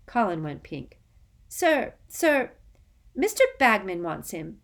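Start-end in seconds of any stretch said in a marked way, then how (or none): 1.5-4.6 put-on high, louder, anxious boy; nervous. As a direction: plead nervously with the teacher. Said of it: "he said nervously".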